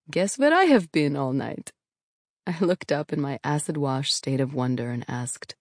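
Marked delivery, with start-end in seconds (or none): 0.1-1.7 put-on heavy Russian accent. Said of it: "said in a heavy Russian accent".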